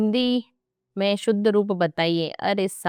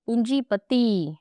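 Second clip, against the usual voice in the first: slow spelled word; 4 semitones higher, slower than usual. Shown as a demonstration. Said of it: "ऐसे वाले".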